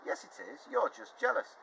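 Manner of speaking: high, loud taunting retort; shouted. Acted. Winning team shouting back at the losers, taunting. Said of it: "shouted the spiders on Speedy's team".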